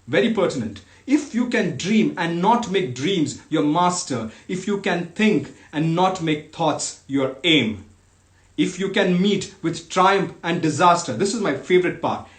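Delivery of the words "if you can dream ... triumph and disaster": measured, emphatic reading with falling phrase ends; poem recitation. Acted. Host reading Kipling's fatherly poem to online listeners, emphatic recitation. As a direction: declaim each clause with deliberate pauses. Resumes the poem after an aside.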